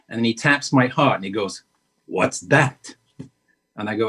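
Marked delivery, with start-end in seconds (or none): 2.1-2.9 lightly voiced probing Pacino; a hint of a mentor's riddle; Al Pacino impression. Pacino tapping her heart, light imitated question. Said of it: "your imitation is genius".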